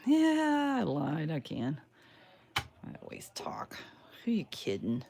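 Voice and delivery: talking around a paintbrush in mouth. Real, not acted. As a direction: speak with a brush between your lips. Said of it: "Put the paintbrush in my mouth so I can't talk".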